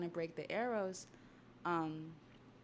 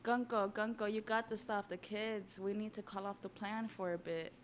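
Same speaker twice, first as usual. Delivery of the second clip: calling out to Gunko; 4 semitones higher than usual. Retold or imitated. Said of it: "He's calling Gunko".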